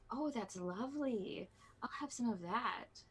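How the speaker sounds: a touch of pleasure, savouring it; mildly delighted. Acted. Player's character tastes the wine.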